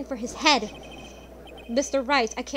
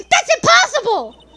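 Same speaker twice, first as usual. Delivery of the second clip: high, loud, slow cry of disbelief through a laugh; hammed-up shock, laughing it out; 13 semitones higher, 11 dB louder, slower than usual. Judge shocked in courtroom.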